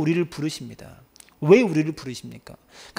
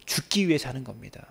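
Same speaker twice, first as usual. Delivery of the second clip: hushed, breathy conviction; whispered; 4 semitones lower, 7 dB quieter than usual. Real, not acted. Preacher whispering to the congregation, hushed. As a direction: lean in and whisper the truth.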